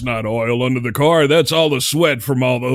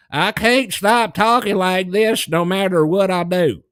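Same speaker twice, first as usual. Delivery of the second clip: put-on Georgia accent; 4 semitones higher, slower than usual. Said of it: "that type of accent".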